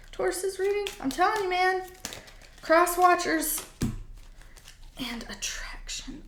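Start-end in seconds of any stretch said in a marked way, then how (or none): 5.0-6.2 breathy unvoiced whisper. Real, not acted. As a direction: whisper the word with delight. Revealing the angel card.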